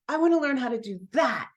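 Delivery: a calmer, determined echo; eager echo. Retold or imitated. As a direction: settle back into wanting it. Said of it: "And I'm like".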